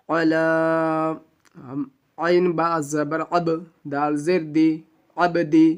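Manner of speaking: slow, syllable-by-syllable spelling. Shown as a demonstration. Teacher spelling Quran words letter by letter, slow. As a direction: spell each letter out slowly for learners. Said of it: "ہجے".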